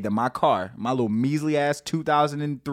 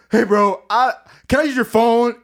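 tweaker asking to use the phone; 10 semitones higher, 8 dB louder than usual. Retold or imitated. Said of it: "the dude's like".

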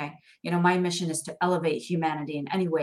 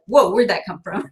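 surprised whoa; 6 dB louder than usual. Retold or imitated. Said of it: "You're like".

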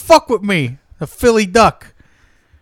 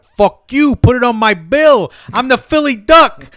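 higher, louder swaggering boast; cocky duck character; 4 semitones higher, 5 dB louder, slower than usual. Acted. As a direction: brag like a tough-guy mascot. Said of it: "And I'm like".

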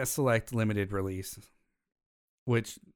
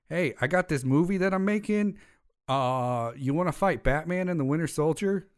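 mock Jake Gyllenhaal; 6 semitones higher, 3 dB louder than usual. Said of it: "And he was like".

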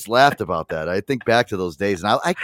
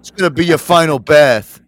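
louder, mock menacing line; quoting the chef; 4 semitones higher, 8 dB louder than usual. Quoting the chef to the lobster, mock menacing. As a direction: growl it at the lobster like a threat. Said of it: "He's like".

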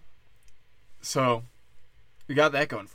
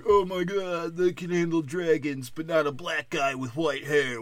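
higher, put-on voice of an offended viewer; mock outraged fan; 4 semitones higher than usual. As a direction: play the online complainer, scandalized. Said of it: "when he was like".

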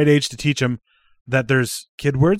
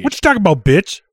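mock sass; 6 semitones higher, 5 dB louder than usual. Mock insult to friend.

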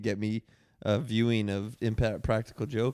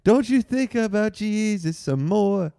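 over the microphone; 8 semitones higher, 6 dB louder, slower than usual. Pretend. Blasting through the microphone.

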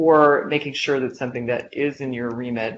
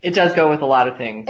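slightly louder, clear repeat; clearer repeat; 4 dB louder than usual. Real, not acted. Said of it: "part, say that again?".

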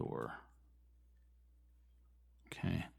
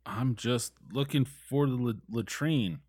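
American drawl; 4 semitones higher than usual. Acted. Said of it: "I say in my best American drawl".

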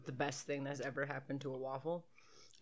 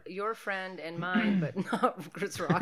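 slow deadpan quip; slower than usual. Shown as a demonstration. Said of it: "That's what I'm gonna say".

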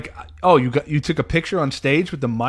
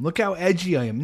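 mocking; 6 semitones higher than usual. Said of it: "It's like".

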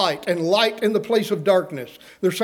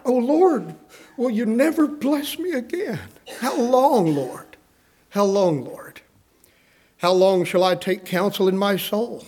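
a pleading preacher's lament; lamenting cry; 3 semitones higher than usual. Retold or imitated. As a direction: cry out to God in anguish. Preacher voices his own lament.

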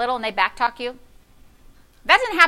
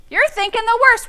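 high squeak of worry; 10 semitones higher than usual. Shown as a demonstration.

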